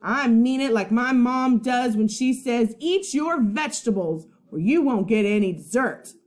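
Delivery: loud, gruff retort; growling. Acted. Boy growling at his friend, a touch loud. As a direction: snarl it back at him. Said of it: "Eugene growled".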